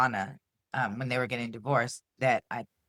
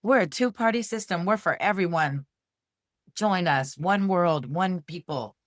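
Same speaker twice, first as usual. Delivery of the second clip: hammed-up campaign-speech voice, higher and louder; mock unity politician; 5 semitones higher, 4 dB louder than usual. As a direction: sell it like a slick candidate's slogan. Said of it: "It's gonna be somebody that's like".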